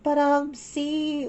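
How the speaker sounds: put-on high, pleading child voice; two sisters arguing, high; young girls' voices. A narrator's reading. Satsuki voiced.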